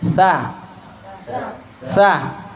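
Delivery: a thin, relaxed "Sa"; plain light "Sa", tongue kept down; light istifal letters. Shown as a demonstration. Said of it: "kita praktekkan".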